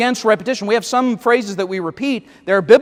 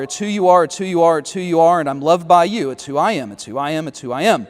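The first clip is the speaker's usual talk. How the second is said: mocking the repeated chorus, each line sinking lower; snarky; 3 semitones lower than usual. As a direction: drag out the repetition with sarcasm. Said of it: "I know that sounded snarky".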